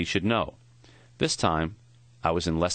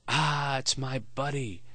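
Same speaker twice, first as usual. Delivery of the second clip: put-on a lightly higher, foggy old man's greeting; foggy, high-pitched voice; 6 semitones higher, 4 dB quieter, slower than usual. Old professor greeting his visiting student in a lightly raised, foggy voice. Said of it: "in that foggy, high-pitched voice".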